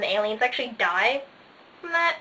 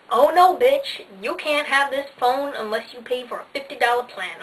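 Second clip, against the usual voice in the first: mock sassy refusal, louder; sassy phone; 2 semitones higher, 4 dB louder than usual. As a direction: snap it like a diva. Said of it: "it's all like".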